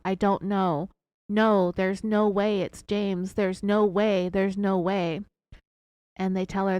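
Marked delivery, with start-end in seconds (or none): 0.0-5.2 slow, drawn-out mock wail of denial; retold crying out. Sherry refusing the DNA news, slow mock crying. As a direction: stretch each no way like a faked sob. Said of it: "And she cries out".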